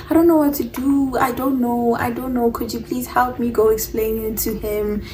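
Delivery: mildly panicked, pleading retelling; retold panicked plea. Girl begs Senzo for help, mild panic. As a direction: plead as if close to tears, lightly acted. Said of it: "I'm panicking, I'm crying".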